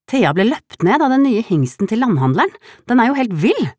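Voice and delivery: high, loud and breathless outcry; screaming. A narrator's reading. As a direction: shout it out before catching your breath. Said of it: "skrek Solveig".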